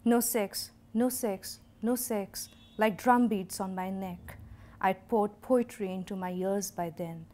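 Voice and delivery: measured, emphatic poem reading; deliberate phrases with pauses at line breaks; poetry recitation. Acted. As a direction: declaim it line by line, punching opening words. Recites her own poem.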